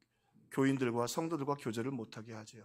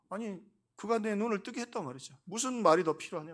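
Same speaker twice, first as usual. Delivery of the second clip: 높은 음으로 당당하게 되받아치는 흉내; 따져 묻듯 당당한 말투를 흉내 내어; 6 semitones higher than usual. Retold or imitated. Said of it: "이 친구 아주 당당하게 얘기해". (당당하게 맞서는 인용 투)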